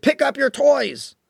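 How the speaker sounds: high, slow mock nag; lightly voiced weary parent order; nagging parent. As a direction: drag it out like a tired parent. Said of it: "Or another one".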